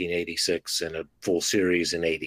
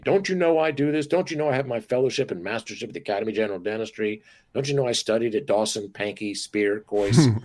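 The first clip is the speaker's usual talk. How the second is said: mock furious; 3 semitones higher than usual. Dentist mocking a furious reply to a patient, hammed-up indignant rant. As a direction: play an offended dentist, half-hearted fury. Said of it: "you can get furious and say".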